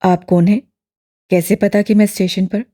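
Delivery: lightly voiced young man, wary; bewildered young man asking. A narrator's reading. Duran asks bewildered.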